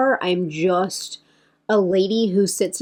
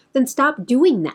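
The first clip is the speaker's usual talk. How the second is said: mock-yelling, higher pitch; 6 semitones higher than usual. Speaker recalls watching creators who kept apologizing: retelling yelling at the screen. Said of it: "Like I'm yelling at the screen".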